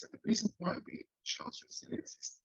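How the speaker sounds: choppy, breaking-up call audio; garbled by a bad connection; robotic call audio. Real, not acted. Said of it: "you sounds like a robot".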